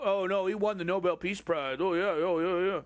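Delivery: lightly sarcastic imitation of liberal excuse-makers; mocking defenders. Streamer mocking people who defend Obama, in light sarcasm. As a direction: brush it off like a smug apologist.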